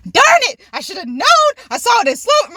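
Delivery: high-pitched mock cursing of luck; dramatized annoyance; retold frustration. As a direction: kick yourself in a high, exasperated voice. Acted frustration after the drop.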